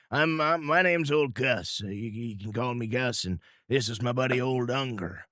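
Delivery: a folksy backwoodsman introducing himself; Old Gus. Acted. Frontiersman introduces himself to the hosts, folksy.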